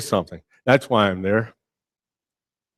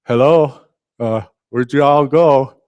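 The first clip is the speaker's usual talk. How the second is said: calling out louder into the fog, then a slow, unsure question; lost calling out; 3 semitones higher, 5 dB louder, slower than usual. Acted. Peter, lost in God's fog, calls out to his missing friends. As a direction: call out as if blinded and alone.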